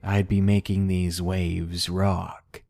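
slow, low leering voice; creepy man voice. Acted. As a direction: drag it out like a sleazy creep. Creepy man's perverse joke.

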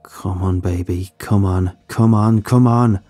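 urgent urging. Acted. Urging the ship faster.

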